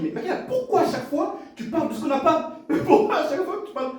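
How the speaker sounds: reproche en riant. Retold or imitated. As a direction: tease her while laughing. Père gronde sa fille en riant. (reproche aigu en riant à sa fille)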